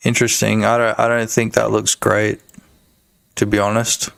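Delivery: low put-on register; deep voice. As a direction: hold the deep voice while commenting. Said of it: "This is my deep voice filter".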